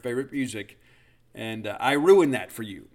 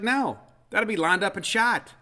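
snobby put-down; 7 semitones higher than usual. Retold or imitated.

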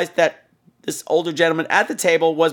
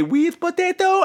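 imitated tiny high voice with an accent; high, sing-out little serving call; teeny tiny high voice; 13 semitones higher, slower than usual. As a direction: mimic a tiny woman, pitched way up. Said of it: "little teeny tiny high voice".

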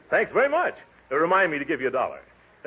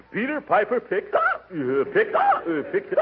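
hiccuping; 12 semitones higher than usual. Acted. Hiccups interrupt tongue twister.

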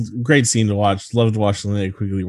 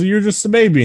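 retold doctor; 11 semitones higher, 4 dB louder than usual. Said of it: "no, he goes".

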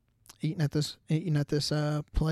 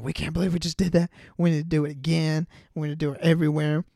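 fast, louder buzzing with adrenaline; hyped; 4 dB louder, faster than usual. Retold or imitated. Skydiving buddies gushing after landing, fast and loud. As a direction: gush like you just landed.

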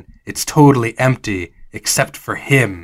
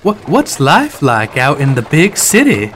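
lightly voiced smitten admirer; infatuated Dolly. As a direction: ask with a touch of adoring curiosity. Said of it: "now clearly very infatuated with".

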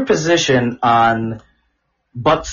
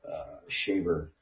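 creepy soft voice; 3 semitones lower, 10 dB quieter, slower than usual. Acted. Creepy soft lowered questions.

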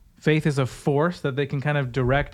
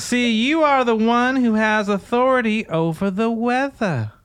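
higher, laughing through the mock sermon; mock preacher woman; 8 semitones higher than usual. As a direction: imitate her, barely holding in a laugh. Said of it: "That's how she says it".

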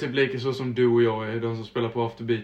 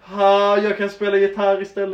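nervous artist; 6 semitones higher, 6 dB louder than usual. Retold or imitated. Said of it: "och han bara".

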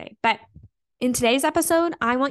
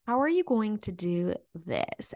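slow, softer mock doubt; doubting naysayer voice; 5 dB quieter than usual. People doubting she can manage, in a soft, slow naysayer voice. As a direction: imitate a skeptic, softly drawing the question out. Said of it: "as I'm saying this in this voice".

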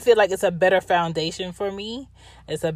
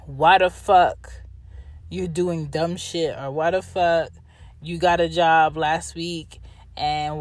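exasperated lecture. Retold or imitated. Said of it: "whenever I would wanna have".

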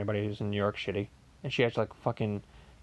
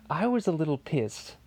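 chuckling through the admission; laughing; 3 semitones higher than usual. Real, not acted. Telling viewers he was annoyed, laughing. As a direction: laugh as you confess it.

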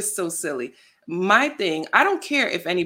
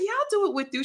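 eager friend; 12 semitones higher, faster than usual. Retold or imitated. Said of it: "she's like".

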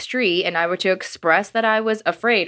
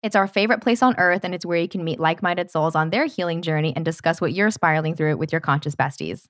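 podcast promo read; 2 semitones lower than usual. Real, not acted. Co-host inviting listeners to meet like-minded souls, promo read. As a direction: sell the community to listeners.

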